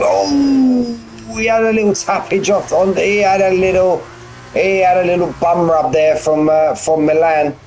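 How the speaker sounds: rising excitement at a tap; high, animated race call; excited. Real, not acted. Calling a race incident.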